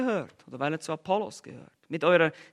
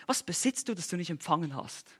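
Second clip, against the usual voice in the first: sarcastic question; 3 semitones lower, 8 dB quieter than usual. Retold or imitated. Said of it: "er stellt ihnen diese sarkastische Frage".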